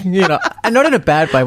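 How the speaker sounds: normal talking voice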